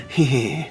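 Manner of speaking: small mock giggle; put-on "hee hee" titter; imitated child's giggle. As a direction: imitate a soothed kid tittering. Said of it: "you pick up, he goes".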